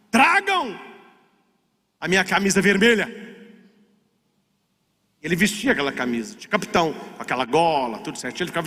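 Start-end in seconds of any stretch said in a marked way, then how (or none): 0.1-3.2 retold captain's shout. Captain orders his crew to bring the red shirt, retold shout. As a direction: call out a mild battle order. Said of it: "ele gritava".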